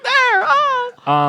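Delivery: very high, playful yelp of alarm; mock startled cry. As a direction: act out being startled by a sudden arrival. Mimics something suddenly arriving.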